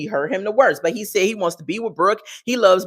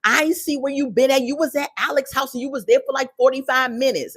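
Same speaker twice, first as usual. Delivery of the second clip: higher-pitched mock scolding; imitated confrontation; 5 semitones higher than usual. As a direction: act out a girlfriend catching him lying. Acts out Brooke confronting J K.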